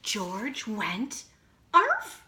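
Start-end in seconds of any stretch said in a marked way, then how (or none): 1.7-2.2 much higher, louder bark; triumphant arf. Acted. George finally barking for his mother, high loud arf. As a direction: yip like a small dog.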